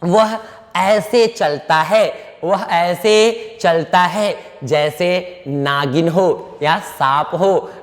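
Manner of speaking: slow dictation. Shown as a demonstration. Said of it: "चलिए, आप बनाइए".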